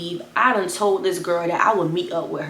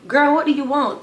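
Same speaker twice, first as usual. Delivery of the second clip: higher, louder, fed up; annoyed phone answer; 7 semitones higher, 4 dB louder than usual. Retold or imitated. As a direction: pick up and snap. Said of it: "I'm like".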